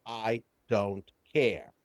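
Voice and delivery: very slow, low and soft; numb indifference. Retold or imitated. Client shutting feelings out, numb and slow.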